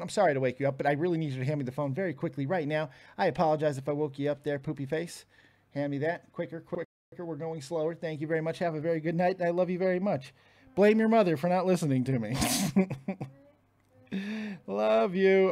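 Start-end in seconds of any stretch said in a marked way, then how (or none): 0.0-10.3 softer, hushed and gentle; father quietly asking his half-asleep daughter for the phone, hushed; hushed apology. Real, not acted. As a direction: keep it down so you don't wake her.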